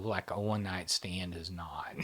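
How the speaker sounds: conspiratorial whisper; whispered aside. Real, not acted. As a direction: drop to a whisper for the cheeky bit.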